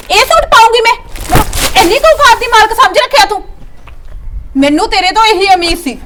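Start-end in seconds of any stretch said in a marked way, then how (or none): 0.1-3.4 scornful anger. Acted. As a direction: throw the insult back at him. Wife scorns the gifted suit. (ਤਿਰਸਕਾਰ ਨਾਲ ਗੁੱਸਾ)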